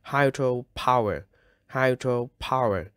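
"hydropower" with HY and POW both marked; stress on POW. Shown as a demonstration. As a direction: model "hydropower," leaning on POW. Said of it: "các bạn nhấn vào pow".

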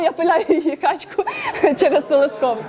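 reading through real laughter; laughing. Real, not acted. Teacher reads the silly example to the class, laughing. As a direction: laugh in the middle of the sentence.

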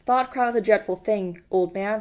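a touch of pious solemnity; lightly preachy, as if reciting a lesson; sententious. Acted. Parsons lectures Winston, mildly sanctimonious. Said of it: "he said sententiously".

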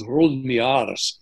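light Scottish accent with rolled R's. Shown as a demonstration. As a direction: roll the R's like a young Scot. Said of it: "with your Scottish accent".

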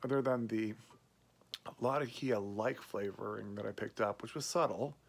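muffled lips around pipe; talking around pipe stem. Real, not acted. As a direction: pipe clenched in teeth. Seen 4: Pipe stem at lips most frames, briefly lowered; smoking before and after.

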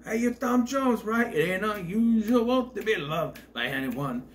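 high-pitched imitation of a delighted greeting; Danny DeVito. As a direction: quote it high, stretching the key word. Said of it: "he says it wrong".

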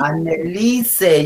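slow "Annelise", sounded E; stretched "Annelise"; name with E. Shown as a demonstration. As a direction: repeat an-ne-LI-se carefully. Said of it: "con E".

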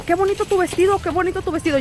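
high, sing-song compliment from strangers; mock compliment. Strangers outside Goodwill flattering her dress, high and sing-song. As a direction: play up the men's flattery.

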